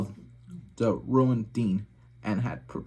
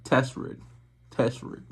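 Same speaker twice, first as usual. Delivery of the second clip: chewing gum. Real, not acted. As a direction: test read around chewing gum. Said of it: "with gum in my mouth".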